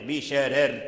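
بشرر with both r's thin and light. Shown as a demonstration. Teacher demonstrating Warsh's reading, r's thin. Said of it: "يقف بالترقيق".

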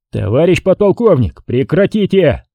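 high-pitched, mildly nervous command; nervous squeal. A narrator's reading. Patrol major to brawling colonel, nervously squealing. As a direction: order it with a touch of panic. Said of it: "Нервно взвизгнул он".

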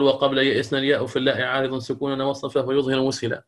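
lightly chanted line of the Shatibiyya; reciting a verse. Shown as a demonstration. Teacher quoting al-Shatibi's verse to students in measured recitation. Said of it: "يذكرها الإمام الشاطبي ويقول".

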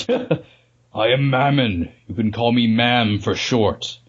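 slow, drawn-out demon. Acted. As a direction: announce yourself slowly like a demon. Voicing the demon face.

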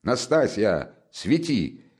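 calling out. Acted. Friend calling the maid to light the way, calling out. Calls servant to bring light.

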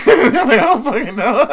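high, loud, laughing retort. Retold or imitated. Retelling his reply to a nurse, laughing. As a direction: crack up as you say it.

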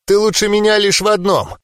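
high-pitched, lightly hoarse retort. A narrator's reading. Beaten fighter answers the winner, mildly hoarse. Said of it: "прохрипела Тайра".

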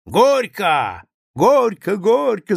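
loud, high chant of gorko; wedding shouts. A narrator's reading. Guests shout gorko at the newlyweds, loud chant. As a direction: chant it from across the table. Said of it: "закричали со всех концов стола".

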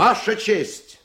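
drawn out in outrage; outraged appeal to the judge; indignant objection. Acted. Lawyer objects in court.

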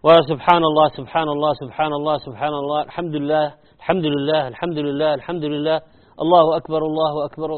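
quick run of سبحان الله, الحمد لله, الله أكبر, endings swallowed; hurried dhikr; rushed dhikr. Retold or imitated. Teacher imitating quick counting after prayer. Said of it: "نأتي نقول".

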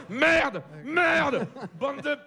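rising comic frustration; mock outburst. Real, not acted. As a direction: blow up at the audience, half joking. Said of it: "Putain, je m'emporte!".

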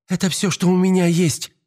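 high-pitched pleading protest; desperate cry. Acted. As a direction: plead high, at the end of means. Мария кричит бандиту через дверь.

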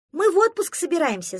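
high, loud eager call; the duckling shouts back to a neighbour at the forest edge; shouted reply. Acted. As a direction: shout it back across the clearing. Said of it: "закричал в ответ утёнок".

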